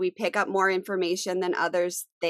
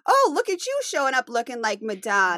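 mock catty comment; 4 semitones higher than usual. Acted example of a cutting remark.

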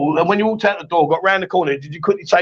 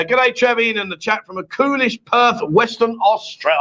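higher-pitched mock Australian, stretching the place name; Australian accent; 4 semitones higher than usual. Host reads a Perth viewer's greeting, mock Australian accent. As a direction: read it out like an Aussie. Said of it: "I love the way they say it".

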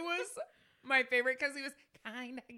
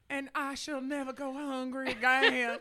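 Scarlett O'Hara impression; 3 semitones higher than usual. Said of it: "got real Scarlett O'Hara".

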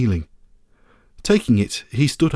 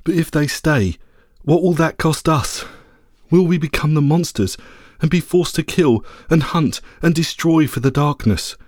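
lightly raised, worried small dog; anxious little dog voice; 4 semitones higher than usual. Acted. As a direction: plead as a small brave dog. Little dog pleading to the lady.

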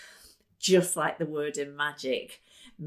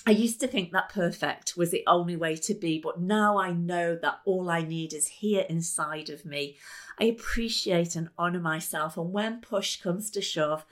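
incantation. Shown as a demonstration. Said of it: "Here's one that I love".

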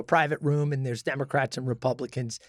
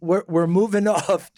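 laughing; 3 dB louder than usual. Real, not acted. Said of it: "laughs mid-phrase".

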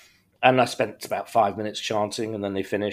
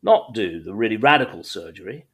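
higher-pitched, lightly put-on voice of the surgeon; voiced consultant; 5 semitones higher, 4 dB louder than usual. Surgeon telling the patient it went better than expected, lightly voiced and higher. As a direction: play the consultant breaking good news, voice raised a little.

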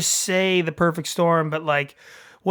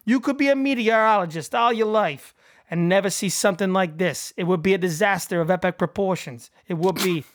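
put-on a light, self-admittedly awful Massachusetts accent; bad Massachusetts accent. Podcast host reads a movie quote to his co-host in a bad Massachusetts accent. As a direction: read the meteorologist's lines in a hammy Boston accent. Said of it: "my best Massachusetts accent".

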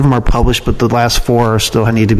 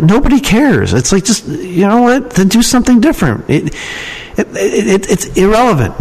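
mock exasperated advice; 8 semitones higher than usual. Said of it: "I'm like".

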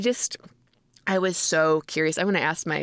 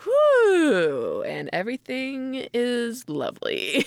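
mock drugged bliss; 4 semitones higher, slower than usual. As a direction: let out a floaty delighted whoo. Drug kicking in.

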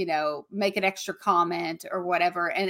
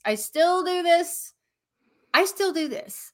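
higher and slower, groaning at herself; self-mocking higher repeat; higher exasperated repeat; 8 semitones higher than usual. Real, not acted. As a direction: pitch jumps up, drawn out, mock despair.

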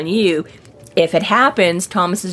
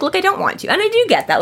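pleading; 12 semitones higher, faster than usual. Retold or imitated. Justine pleading, voiced high.

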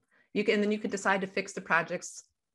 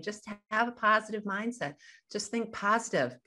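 mock-cheerful advice, pitched a bit higher; sarcastic; 4 semitones higher than usual. Friends handing out easy advice to someone struggling, sarcastic. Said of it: "You can tell the sarcasm in my voice".

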